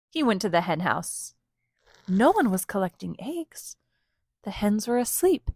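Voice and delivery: expressive picture-book reading with lilting stresses; story read-aloud. A narrator's reading. Parent reads rooster book to children, expressive storytelling. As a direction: read it to small children, stretching key words.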